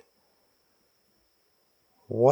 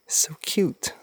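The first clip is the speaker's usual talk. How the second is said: whisper; 4 semitones higher than usual. Real, not acted. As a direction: whisper so the rabbit stays. Whispering to a rabbit.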